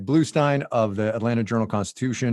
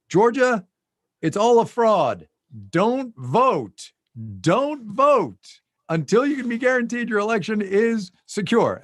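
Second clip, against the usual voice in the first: high mock rant, slower; mocking lawyers; 11 semitones higher, 4 dB louder, slower than usual. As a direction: parody the fraud claims in a high voice. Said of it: "have been saying".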